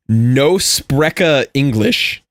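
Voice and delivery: "no spreche English" said slowly, half Spanish "no"; slow broken "no spreche English"; mangled German. Shown as a demonstration. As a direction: drag out "no spreche English" like a confused learner. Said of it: "how out loud I said it in my head".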